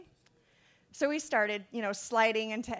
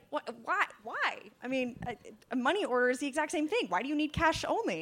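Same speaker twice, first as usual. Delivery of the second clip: higher, rushed mock-baffled objection; retold incredulous protest; 4 semitones higher, faster than usual. Dad questions the seller's cash-only demand, acted incredulity. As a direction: imitate a dad spluttering in disbelief.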